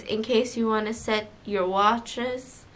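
slow, soft, drowsy intercom voice; sleepy pilot voice. Retold or imitated. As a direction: lull the cabin like a sleepy captain. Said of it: "fall asleep again with your voice".

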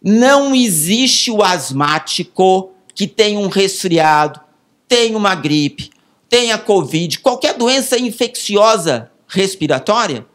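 slow, emphatic explanation; slow, deliberate. Shown as a demonstration. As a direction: spell it out slowly, word by word. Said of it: "vou falar devagar".

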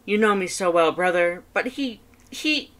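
high, loud, fast boastful skeleton; Papyrus voice. Acted. Papyrus reporting on his date to his brother, high and loud. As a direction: rattle it off proudly, high and loud.

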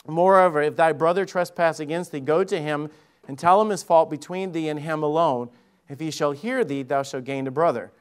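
solemn King James reading, measured; a lightly formal Bible reading; scripture reading. Acted. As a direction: read the verses like scripture.

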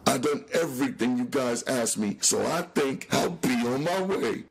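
high nervous pleading; begging. Acted. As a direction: edge away while begging. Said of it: "continued his begging".

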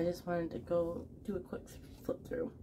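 hushed whisper so the nappers stay asleep; soft whisper while others sleep. Real, not acted. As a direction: whisper it, family asleep upstairs. Family napping upstairs, speaks softly.

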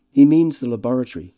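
high, loud, gushing society man; jovial host. Acted. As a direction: introduce your old friend with great fuss. Devine's lines in the novel.

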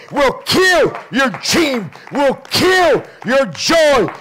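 slow, hammered preacher cadence; preacher's rhythmic build, drawn-out key words; emphatic preaching. Real, not acted. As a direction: drive each phrase home, landing hard on KILL. Preaches at full force.

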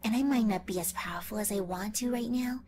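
whispered megalomaniac rant; villain speech. Acted. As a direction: gloat and threaten in a hush. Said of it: "my final villain speech".

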